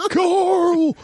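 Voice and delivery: high, hammed-up Southern "Carl"; mock American accent. Mocking The Walking Dead actor, exaggerated American accent. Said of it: "Terrible American accent".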